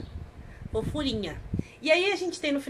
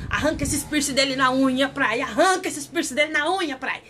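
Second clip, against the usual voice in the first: heated urging; 3 semitones higher than usual. Retold or imitated. Viewer tells Pry to rip out piercings, heated urging. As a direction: urge a character on, half laughing.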